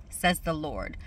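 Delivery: measured, emphatic reading of scripture. Real, not acted. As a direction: read the verse out deliberately, phrase by phrase. Reads scripture again.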